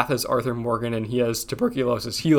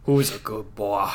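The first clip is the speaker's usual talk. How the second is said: puppy dog talk; 4 semitones lower, 3 dB quieter than usual. Acted. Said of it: "more into, like".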